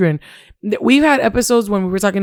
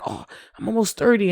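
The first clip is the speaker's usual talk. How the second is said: softly voiced old reaction to thirty; a small, quiet "oh" of mild concern; mild past worry; 6 dB quieter than usual. Host recalling how turning thirty felt, mildly concerned. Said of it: "thirty was like".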